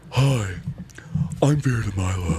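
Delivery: lightly voiced campy drag queen; a hint of Vera DeMilo drag voice. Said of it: "the voice that Jim Carrey puts on".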